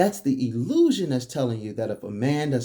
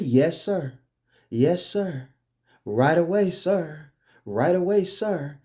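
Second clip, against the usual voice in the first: mock obedience; 3 semitones higher, slower than usual. Wife acted obeying her boss.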